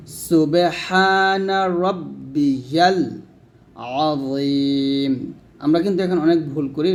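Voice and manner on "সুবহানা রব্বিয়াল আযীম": slow, drawn-out recitation; measured chant. Shown as a demonstration. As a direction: stretch আযীম long. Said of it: "রুকুর তাসবিহ হচ্ছে".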